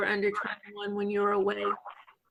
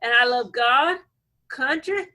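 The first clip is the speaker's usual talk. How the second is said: put-on stereotypical Alabama accent. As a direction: list it like a caricature Alabama local. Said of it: "I'm being stereotypical".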